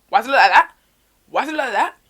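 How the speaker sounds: loud, high outraged question; shocked mum. Retold or imitated. Mum seeing the burger, loud shock. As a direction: imitate an appalled mum, pitch jumping up.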